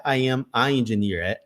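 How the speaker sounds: slow "I am a engineer" with plain "a"; wrong version. Shown as a demonstration. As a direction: show the mistake, "a engineer". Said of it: "não é". (versão errada: "a engineer")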